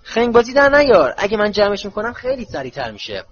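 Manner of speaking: high loud burst, then easing in volume; calling out loudly. A narrator's reading. Tonks stops Harry packing by hand, loud. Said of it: "تانکس بلند گفت".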